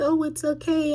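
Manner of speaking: high, sing-song mock soothing; parroting the others' comfort, lightly mocking; a light send-up of cooing sympathy; imitating comforting. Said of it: "come to comfort her and be like".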